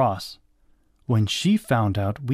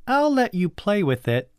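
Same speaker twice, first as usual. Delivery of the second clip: put-on high-pitched bossy girl; high voice of a child in charge; bossy cousin; 9 semitones higher than usual. A narrator's reading. Bossy cousin's dialogue in read-aloud story.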